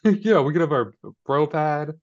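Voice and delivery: high, slow teasing bro voice; pretending to woo a best friend; mock smitten bro. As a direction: sweet-talk your buddy, hammed up. Mock bro pad pitch.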